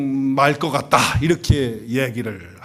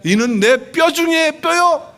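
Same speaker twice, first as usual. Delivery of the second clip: higher, louder, slow exclamation of wonder; Adam's rapturous cry; 8 dB louder, slower than usual. Retold or imitated. Adam marvels at first seeing Eve, loud and slow. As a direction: proclaim it like first love at sight. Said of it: "뭐라 그랬어요?".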